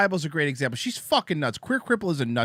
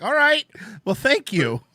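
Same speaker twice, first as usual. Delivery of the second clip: high mock thanks; 10 semitones higher, 6 dB louder than usual. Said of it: "You're like".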